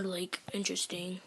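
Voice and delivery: soft unvoiced whisper. Real, not acted. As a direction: whisper it like a secret. Teasing outro aside.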